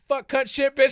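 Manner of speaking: high loud prank yell; shouted cursing. Retold or imitated. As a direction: blurt curses at the top of your voice. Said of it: "the guy's all".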